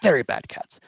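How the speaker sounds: disapproving, lightly hammed Korat accent; halting distaste in a fake Korat accent; Mister Meow. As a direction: condemn someone in a bad Korat accent. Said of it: "very thick, um, Korat accent".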